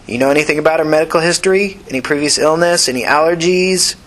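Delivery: brisk nurse running a checklist; tired nurse. Acted. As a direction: rattle off the intake questions. Nurse takes history.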